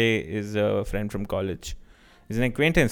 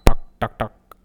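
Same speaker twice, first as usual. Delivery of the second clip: imitated tapping; 8 dB louder than usual. Shown as a demonstration. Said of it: "you'll hear this constant tuck".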